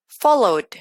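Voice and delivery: "Followed" with a small D after the vowel; small final D. Shown as a demonstration. Teacher showing vowel-ending verbs, small D on "Followed". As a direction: add a light D to end "Followed". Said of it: "le agrego una pequeña D al final".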